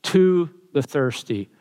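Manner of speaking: "to the thirsty" slow with "to" leaned on; slow stress on to. Shown as a demonstration. Preacher rereading the phrase, slow stress on "to". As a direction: linger on "to" as you read it. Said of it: "Look at that word".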